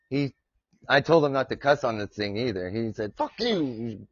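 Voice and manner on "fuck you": mock bark, put-on dog voice; dog's bark as words. Streamer voicing his barking dog's reply, mock barked curse. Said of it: "when he barked like that".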